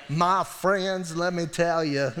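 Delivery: lightly imitated preacher's accent; J Vernon McGee's accent. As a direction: put on a playful version of the preacher's accent. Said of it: "do it in his accent".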